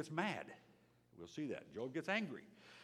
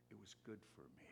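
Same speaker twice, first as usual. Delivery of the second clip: soft, quick repeat; 12 dB quieter, much faster than usual. Real, not acted. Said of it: "I've said many times".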